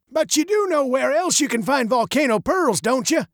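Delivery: put-on high, gravelly old man's voice; old, gravelly jeweler. A narrator's reading. Jeweler quizzing the girl, old and gravelly. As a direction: probe knowingly in an old, high voice. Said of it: "his voice as old and gravelly as his face".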